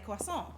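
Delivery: "croissant" said "kwa-son" the French way; "croissant" in French pronunciation. Shown as a demonstration. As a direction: give "croissant" French vowels, "kwasson". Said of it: "the way I say it".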